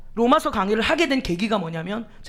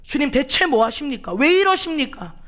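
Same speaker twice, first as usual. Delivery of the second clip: building complaint. Retold or imitated. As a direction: start hushed and swell into protest by 왜 이러십니까. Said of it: "라고 반문을 합니다".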